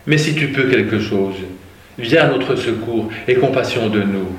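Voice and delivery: passage lu à voix posée et portée; lecture biblique. Acted. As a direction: raconte le récit de l'Évangile à l'assemblée. Reading the Gospel aloud. (lecture de l'Évangile, ton de récit)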